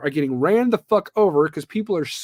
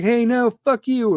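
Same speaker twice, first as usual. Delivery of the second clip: mock aggressive reply; 6 semitones higher, 3 dB louder than usual. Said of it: "the guy's like".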